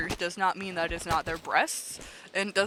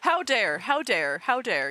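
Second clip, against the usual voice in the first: mock outrage; 2 semitones higher, 4 dB louder than usual.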